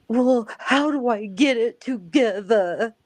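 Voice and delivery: put-on small child voice. Grandma imitating toddler talking back to mom. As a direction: ask it wide-eyed like a little kid. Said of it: "she goes".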